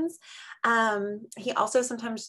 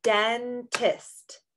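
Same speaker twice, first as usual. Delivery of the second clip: clapped syllables. Shown as a demonstration. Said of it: "how many word parts or syllables".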